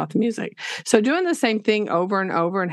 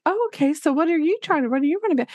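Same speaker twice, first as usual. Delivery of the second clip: higher, quick, sing-song conferencing voice; chirpy teacher voice; 6 semitones higher, much faster than usual. Retold or imitated. Teacher to student while conferencing, mock chirpy. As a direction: play the teacher checking in, over-sweet. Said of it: "I really don't talk like that".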